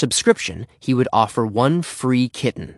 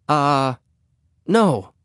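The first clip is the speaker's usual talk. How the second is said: higher, hesitant little answer; falter, then answer from higher up; embarrassed; 4 semitones higher than usual. Acted. Henry is caught out by the neighbor, embarrassed and hesitant.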